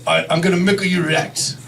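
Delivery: Japanese-accented doctor impression; mock Japanese-accented doctor; imitated Japanese accent. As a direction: put on a thick Japanese accent. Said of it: "this is how he spoke".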